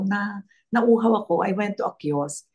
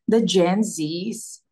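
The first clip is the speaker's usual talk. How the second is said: amazed; 2 semitones lower, slower than usual. Retold or imitated. Amazed exclamation, slowed.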